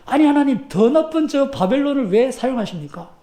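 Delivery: startled prophet protesting to God. Acted. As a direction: protest in alarm, voice jumping up. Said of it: "놀래가지고".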